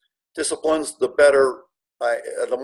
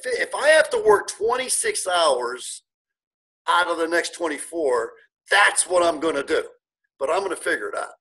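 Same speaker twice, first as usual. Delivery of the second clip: determined vow; 2 semitones higher than usual. Retold or imitated. Retells his own determined vow.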